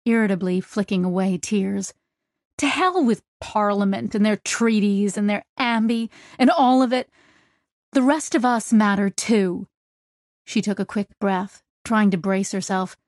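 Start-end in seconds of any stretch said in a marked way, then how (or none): 2.6-9.7 angry outburst. Acted. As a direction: vent the anger at him. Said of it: "I'm just so angry".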